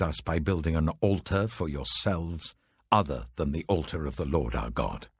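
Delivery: a hint of an accusing elder, pushing each question; stern rebuke.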